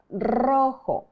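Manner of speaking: rojo with a slightly rolled R at the start; rolled Spanish R. Shown as a demonstration. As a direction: roll the R in rojo lightly, Spanish style. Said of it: "the R is pronounced with a slight rolling of the tongue".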